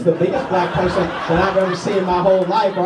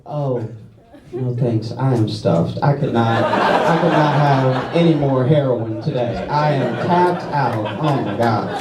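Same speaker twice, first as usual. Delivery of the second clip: lower, drawn-out acted politeness; mock polite refusal; 4 semitones lower, slower than usual. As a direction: decline as if too full, in a lightly put-on way. Awkwardly acted polite refusal of drugs.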